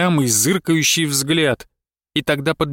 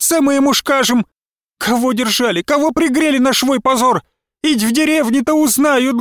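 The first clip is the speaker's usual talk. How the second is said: put-on high, loud old woman shooing her like a cat; shouting her out; 8 semitones higher, 3 dB louder than usual. A narrator's reading. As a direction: drive her out of the house with furious shouts. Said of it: "как на кошку же, крикнула".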